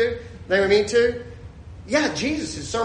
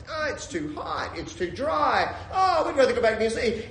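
whiny grumbling of weary travelers; mock complaining; 4 semitones higher than usual. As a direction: grumble about the hardship, hammed-up. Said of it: "but they're complaining about it".

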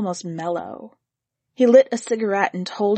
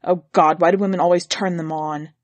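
disgusted; 3 semitones lower than usual. Acted. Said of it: "he said disgustedly".

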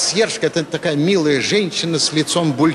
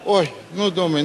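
ordinary delivery

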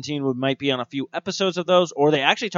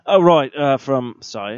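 put-on British accent; 3 dB louder, slower than usual. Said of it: "I'm still in my British accent".

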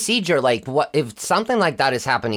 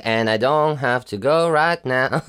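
slow, drawn-out commercial line; nineties ad. Retold or imitated. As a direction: say it slowly like an old TV ad. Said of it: "that commercial from, like, the nineties".

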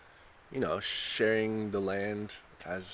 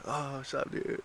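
higher, spacey surfer dude; dumb surfer voice; 5 semitones higher, 7 dB quieter than usual. Retold or imitated. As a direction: play the clueless beach bro. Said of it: "dumb sounding surfer voice".

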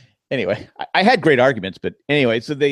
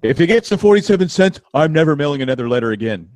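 high, louder complaining customer voice; pitched-up mock grumble; 4 semitones higher, 6 dB louder than usual. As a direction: play a grumpy stamp buyer.

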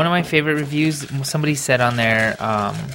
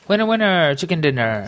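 excited catchphrase; 5 semitones higher than usual. Real, not acted. Cheering catchphrase.

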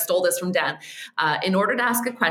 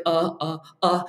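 stammering. Retold or imitated. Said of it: "and stammering".

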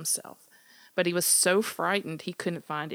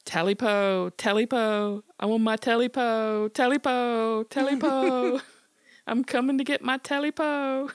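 loud, higher eerie creature chant; louder creature call; 6 semitones higher, 7 dB louder than usual. Acted. Creature calls for its Talipo, louder eerie chant. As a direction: moan it out like a hungry creature.

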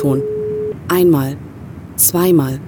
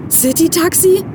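frantic, much higher-pitched plea; voice almost cracking; 7 semitones higher than usual. A narrator's reading. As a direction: blurt it out high and panicky, voice nearly breaking. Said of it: "wobei sich seine Stimme fast überschlug". (hoch und gehetzt, die Stimme überschlägt sich fast)

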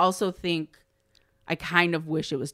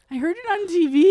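mock sad kid; 11 semitones higher, 7 dB louder than usual. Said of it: "like, really sad about it".

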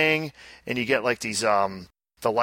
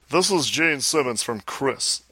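lightly voiced rock-star impression, slowly; a hint of celebrity impersonation, drawn out; a rock star's voice. Host starting the requested celebrity reading, lightly impersonated. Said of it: "do this in the rock star's voice".

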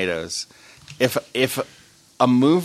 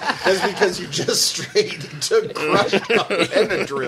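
laughing; 7 semitones higher than usual. Real, not acted. Laughing at numb friend.

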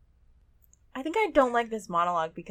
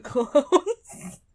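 laughing; 2 semitones higher, 4 dB louder than usual. Real, not acted. Punchline, laughing.

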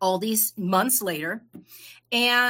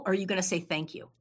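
gentle inner voice; 5 dB quieter than usual. Retold or imitated. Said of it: "My heart kinda goes".

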